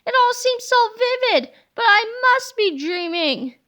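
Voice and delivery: giddy teacher. Acted. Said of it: "cried Miss Anthrop".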